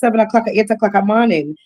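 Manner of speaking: quick, matter-of-fact complaint; brisk acted reproach to an early caller; firmly letting know. Entertainer chiding an early-morning caller, firmly letting them know. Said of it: "I'm just letting you know that".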